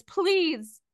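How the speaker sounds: a touch of desperate pleading; pleading man. Acted. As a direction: beg mildly for a beloved pet. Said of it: "a voice from across the room that says".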